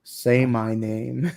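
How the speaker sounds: Heisenberg. Retold or imitated. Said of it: "gonna be like Heisenberg".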